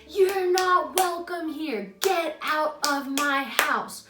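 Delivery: drawn-out mock scream, high and loud; retold screaming. Dreamer ordering an intruder out of the house, retold screaming. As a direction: imitate screaming each word slowly and forcefully. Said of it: "just screaming again".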